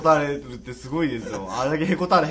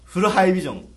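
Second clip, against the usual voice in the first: louder punchy ad slogan; CM catchphrase voice; 3 semitones higher, 5 dB louder than usual. Retold or imitated. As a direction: sell it like a TV ad. CM parody catchphrase.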